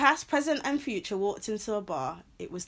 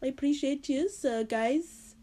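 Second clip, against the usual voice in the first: lightly put-on French accent; attempted French accent; 3 semitones higher than usual. Host thanking the guest and listeners, slight French accent. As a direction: sign off with a wobbly French accent. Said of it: "I'm doing a French accent".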